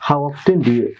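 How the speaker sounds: how often do you run together, linked; linked speech. Shown as a demonstration. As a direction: glide How often do you as one unit. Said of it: "আমরা হলে কি বলি how often আলাদা".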